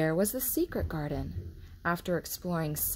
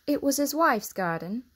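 higher voiced maid explaining; higher, earnest Martha; 7 semitones higher, 5 dB louder than usual. A narrator's reading. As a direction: lift the voice for the young maid. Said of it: "Martha explained".

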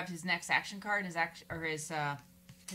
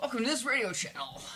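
higher-pitched mock radio announcer; 5 semitones higher than usual. Player imitating an album's radio intro, announcer voice. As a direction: imitate a radio host's welcome. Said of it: "announcer voice from K".

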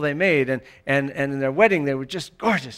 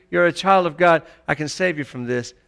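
a hint of a tender comforter; Holy Spirit's voice; 3 dB louder than usual. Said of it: "that's the Holy Spirit".

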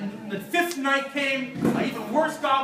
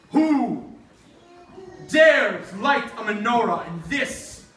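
a hint of a menacing goblin king, slow and drawn out; goblin king threat; slower than usual. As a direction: threaten him slowly, like a lightly played villain. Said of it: "he heard a voice, and it said".

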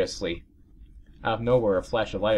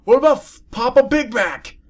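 loud joking aside; 12 dB louder than usual. Real, not acted.

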